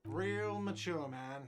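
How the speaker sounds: high, slow, whining yell; whiny shout. Acted. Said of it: "a whiny voice shouts".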